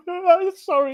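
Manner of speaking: high, slow, giggly mock apology; laughing apology. Real, not acted. Host fakes sorry to Brian, laughing.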